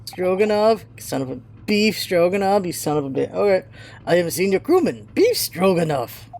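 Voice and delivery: put-on lightly done Russian accent, gruff sailor; a proud, touchy Russian seaman. Sailor Stroganoff scolding the visitors, light Russian accent.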